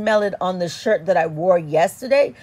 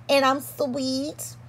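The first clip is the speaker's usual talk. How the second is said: sweet and flirty; 4 semitones higher, 6 dB quieter than usual. Pretend. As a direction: coo it softly and flirtily. Playing sweet, creamy flirty side.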